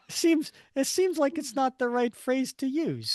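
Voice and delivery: high voice squeezed by laughter; laughing, high-pitched comment; real amusement. Real, not acted. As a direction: talk through the giggles. Still laughing at the phrase.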